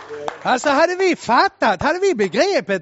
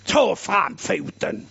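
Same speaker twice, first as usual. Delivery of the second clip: slow, curt sceptical order; sceptical sister's order; 4 semitones lower, slower than usual. Retold or imitated. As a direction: say it like a doubting sister. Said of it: "liksom så". (systern säger misstroget och långsamt)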